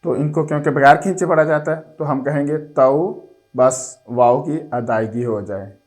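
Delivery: a patient teacher sounding out syllables; slow spelling drill. Shown as a demonstration. Teacher sounding out syllables for a child, slow spelling drill. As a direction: spell each letter out slowly and evenly, then blend.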